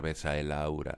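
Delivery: "besa el" run together as one flow; synalepha. Shown as a demonstration. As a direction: glide from the last vowel of "besa" into "el". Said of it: "pronunciamos esas dos sílabas como una única".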